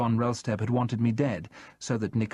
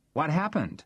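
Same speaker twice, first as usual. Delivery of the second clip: eager Charles; 6 semitones higher than usual. A narrator's reading.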